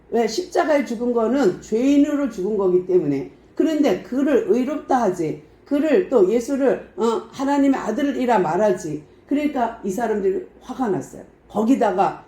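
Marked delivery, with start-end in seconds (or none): none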